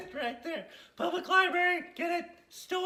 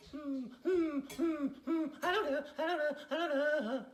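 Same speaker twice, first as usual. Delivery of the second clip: imitating Dale; 4 semitones lower, 5 dB quieter than usual. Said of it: "watching her go like this".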